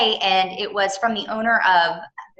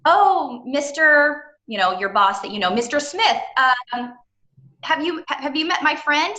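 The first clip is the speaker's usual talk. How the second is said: higher, louder polite introduction to the boss; introducing your boss; 7 semitones higher, 4 dB louder than usual. Shown as a demonstration. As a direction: greet the boss as if at a mixer. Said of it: "you start the introduction with the person that you know".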